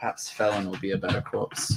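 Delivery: muttered under breath. Speaking in character while walking past another character after combat: muttered under his breath. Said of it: "under his breath be like".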